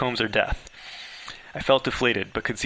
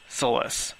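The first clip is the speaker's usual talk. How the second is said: a frightened whispered name; hushed whisper. Acted. Hiding from Solace, hushed name.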